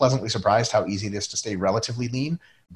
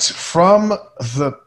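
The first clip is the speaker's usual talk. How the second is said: mock announcer; 2 semitones higher, much slower than usual. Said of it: "That was good".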